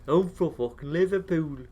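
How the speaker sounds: a lightly put-on cartoon Irish accent; bad Irish accent. Friends joking about Irish accents, a bad mock Irish accent. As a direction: play at a Simpsons-style Irish lilt. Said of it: "I can't do an Irish accent".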